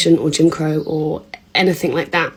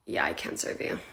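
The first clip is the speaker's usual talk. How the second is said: bartender refusing; 16 dB quieter than usual. Acted.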